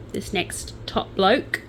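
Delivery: slow, sardonic drawl. Real, not acted. Host introducing the next con man to listeners, sardonic. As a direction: say it with dry Australian sarcasm. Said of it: "and I say that sardonically".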